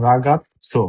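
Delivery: ragazzo slowly, double z as ts. Shown as a demonstration. Teacher repeats ragazzo slowly for students. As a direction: say ragazzo slowly, stressing ragatso. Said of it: "সামনেরটার উচ্চারণ হবে টি".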